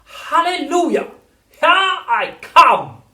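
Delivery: high, loud, slow cackling crone; screechy old grandma. A narrator's reading. Grandma growing through the ceiling, loud screechy crow. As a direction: stretch it out like a gleeful old witch. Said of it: "she shouted".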